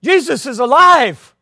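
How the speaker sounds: high, loud, slow proclamation; excited shout. Acted. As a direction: announce it with joyful conviction. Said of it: "He said".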